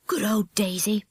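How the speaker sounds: gleeful whisper. Acted. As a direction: whisper it with secret delight. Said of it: "whispered Mike".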